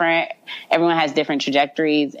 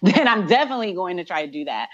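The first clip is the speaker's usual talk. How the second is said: laughing; faster than usual. Real, not acted. Laughing while teasing former bosses.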